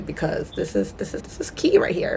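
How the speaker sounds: hushed secret whisper. Real, not acted. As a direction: let them in on a secret. Emphatic aside, whispered.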